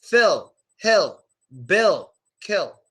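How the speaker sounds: "Phil, hill, bill, kill" with short ih; unstressed short i. Shown as a demonstration. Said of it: "there's no stress on the vowel sound".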